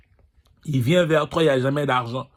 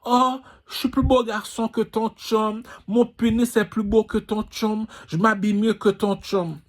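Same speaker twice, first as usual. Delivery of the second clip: higher mocking whine of a vain guy; mock whining boaster; 6 semitones higher than usual. Mocking a guy bragging to a woman, whiny higher voice. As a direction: sneer it like a boastful rival. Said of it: "tu vas aller pleurnicher".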